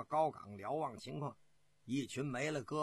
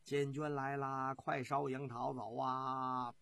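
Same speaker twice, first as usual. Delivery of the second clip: crowd shouting; slower than usual. Acted. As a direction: imitate soldiers' distant shouts, slowly. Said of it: "士兵们喊叫着". (拖长声模仿士兵喊叫)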